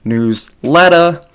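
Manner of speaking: newsletter said the Boston way as newslettah, with the r dropped and ending on ah; Boston accent. Shown as a demonstration. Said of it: "like, Boston, it's newsletter".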